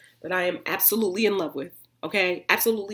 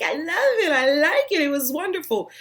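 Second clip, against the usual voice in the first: mock gushing self; 9 semitones higher, 7 dB louder than usual. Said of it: "I'm just like".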